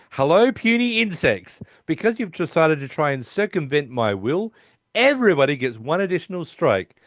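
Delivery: high, grand villain voice; mock supervillain announcement; mock villain message. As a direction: lord it over the puny insects. Sheldon's villainous recorded message.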